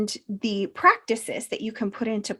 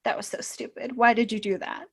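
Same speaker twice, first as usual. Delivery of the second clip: harsh self-talk; 6 dB quieter, faster than usual. Retold or imitated. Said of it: "less harsh, like".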